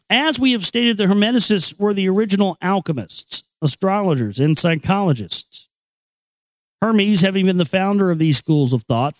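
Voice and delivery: measured, even book-reading voice; reading aloud. Acted. Reading chapter three of the Kybalion to listeners in a measured voice. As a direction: read the old text steadily and clearly.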